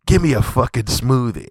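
a mild rude order, said fairly plainly; rude demand. Retold or imitated. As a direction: toss off a blunt rude demand. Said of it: "And he said it just like that".

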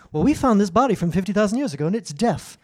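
mocking scientist. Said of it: "mocking scientist's claim".

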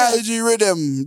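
slow Jamaican accent. Shown as a demonstration. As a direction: drawl it like a Jamaican dancehall MC. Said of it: "You say it like that Puerto Rican singer".

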